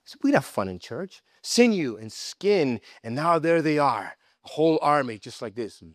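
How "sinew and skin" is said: drawn out. Acted. Preacher dramatizes bones forming.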